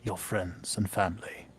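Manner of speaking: low, steady, rumbling dragon. Acted. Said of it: "the dragon's voice just rumbling all around you".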